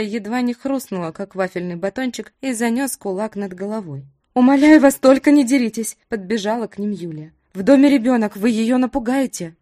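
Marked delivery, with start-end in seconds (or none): 4.3-6.0 loud, higher desperate plea; pleading shout. Acted. Yulia runs up pleading. 7.5-9.6 loud, alarmed pleading; urgent plea. Acted. Yulia begging them stop.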